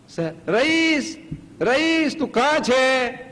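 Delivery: calls high and loud across the house, pretending not to see him; playful calling out. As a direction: sing out the grandson's name like a playful search. Grandpa calls hiding grandson.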